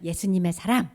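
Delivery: loud call-and-response phrases; firm declaration. Shown as a demonstration. Teacher leading children with hand on heart, firm declaration. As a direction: declare it in short bursts for others to echo. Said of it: "자, 한번 해보세요".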